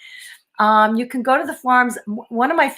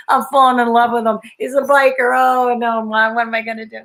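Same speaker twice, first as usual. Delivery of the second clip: louder, playful self-quoted panic; mock dismay; 4 dB louder than usual. Woman retelling falling for a biker, mock dismay. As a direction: act out a comic "oh no" moment. Acts out her dismayed realization.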